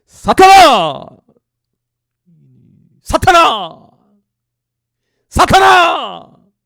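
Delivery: slow, very loud, high shouted rebuke; furious rebuke. Acted. Jesus rebuking Peter, very loud, high shouted rebuke. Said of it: "돌이키시며 베드로에게 이르시되".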